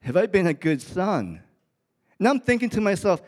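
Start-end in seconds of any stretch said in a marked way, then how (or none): 0.0-1.4 raised, emphatic "Have I been a good son?" with stress on "I"; stabbing question. Retold or imitated. Preacher retelling his son's question to the congregation, raised and emphatic. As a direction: let it land hard, like it cut you. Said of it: "he stabs me this, with this question".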